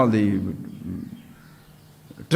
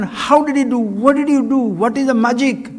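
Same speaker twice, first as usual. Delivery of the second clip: raised, eager questions from an astonished king; amazed king; 5 semitones higher than usual. Retold or imitated. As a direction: ask it like a king who can't believe his eyes. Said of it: "he couldn't contain his surprise".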